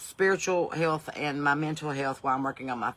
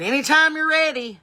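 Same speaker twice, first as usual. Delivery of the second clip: much higher, louder snide voice; mock impatient driver; sarcastic old man; 9 semitones higher, 6 dB louder than usual. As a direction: needle her like a cranky old man.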